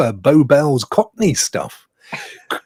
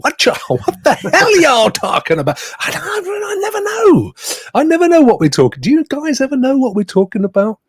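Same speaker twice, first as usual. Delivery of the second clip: laughing; 11 semitones higher than usual. Real, not acted. Joking about show name.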